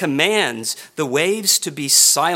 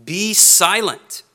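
slow, higher and louder, firm order; rebuking command; 4 semitones higher, 5 dB louder, slower than usual. Retold or imitated. Jesus commanding the sea, slow and stern. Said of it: "speaking with a sharp and rebuking tone".

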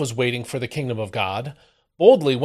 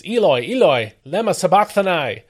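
a mild, understated cry; a touch of an anguished loud cry; cried out loud; 5 semitones higher, 3 dB louder than usual. Acted. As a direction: raise the voice a little, pleading. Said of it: "Jesus cried out in a loud voice".

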